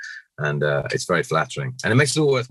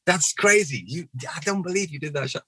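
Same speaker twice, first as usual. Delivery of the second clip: imitated freaking out; 11 semitones higher than usual. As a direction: freak out up high, stretching the wow. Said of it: "she was freaking out".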